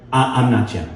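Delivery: understated, hesitant little correction; bewildered denial. Acted. Man in a headlock corrects a stranger, bewildered denial. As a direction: stammer it mildly, at everyday volume.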